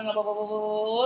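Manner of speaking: put-on fast, run-together words like a child racing through a text; mock rushed reading. Teacher imitating a child reading too fast, mock rush. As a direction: rattle it off fast, mimicking a hurried reader. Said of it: "ചില കുട്ടികൾ വായിക്കുന്ന കേട്ടില്ലേ".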